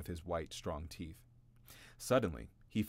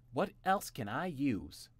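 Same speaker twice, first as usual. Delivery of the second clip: Jimmy wondering; 6 semitones higher, 3 dB louder, slower than usual. A narrator's reading. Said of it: "thought Jimmy".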